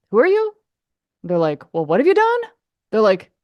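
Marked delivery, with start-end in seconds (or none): 0.1-0.5 high, loud, dismissive squeak; mocking a snooty sound mixer; mock rude caller. 1.7-2.4 high, loud, dismissive squeak; mocking a snooty sound mixer; mock rude caller.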